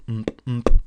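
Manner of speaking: short thumping "mm" noises; loud hummed bass thuds; imitated club beat. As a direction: mimic the thump of club music.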